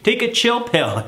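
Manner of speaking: chill out. Real, not acted. Telling frantic parents to relax, playful high swoop. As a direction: tease the worried parent into calm. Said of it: "calming frantic parents".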